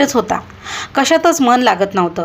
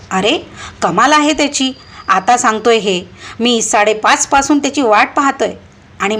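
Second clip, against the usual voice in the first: raised, indignant scolding over the phone; a moderately raised angry rebuke on the phone; angry shouting; 3 semitones higher than usual. Acted. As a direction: complain hotly that you were let down. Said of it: "मी संतापाने अक्षरशः ओरडलोच".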